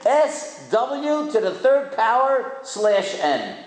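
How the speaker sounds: slow, letter by letter; a speaker reading a cryptic sign aloud, slowly; slow spelled out. Shown as a demonstration. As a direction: read each symbol off the sign slowly. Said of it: "Hope everybody can see it".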